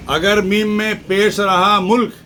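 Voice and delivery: teacher sets out the first reading of ملک; vowel emphasis. Shown as a demonstration. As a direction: stress the pesh in ملک as mulk. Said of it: "معنی کس طرح بدل جاتے ہیں".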